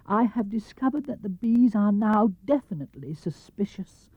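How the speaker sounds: lightly high bear voice; a small bear explaining his plan; Pooh bear. Acted. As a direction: bear asking for a favour. Pooh voice held.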